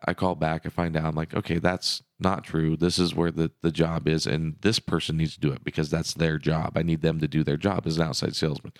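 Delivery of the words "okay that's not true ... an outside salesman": firm talk while thumping the table; banging the desk. Real, not acted. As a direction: hit the table as you insist. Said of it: "quit hitting the table".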